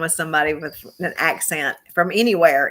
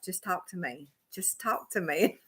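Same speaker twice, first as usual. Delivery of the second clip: soft imitation of a caller; lightly voiced, softened plea; hushed quote; 8 dB quieter than usual. Retelling a caller's request, softly imitated.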